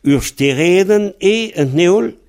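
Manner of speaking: stereden et neol? high and slow, rising on et; high quiz question. Shown as a demonstration. Teacher tests the student, high and slow. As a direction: test the learner with a lifted question. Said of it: "si je dis".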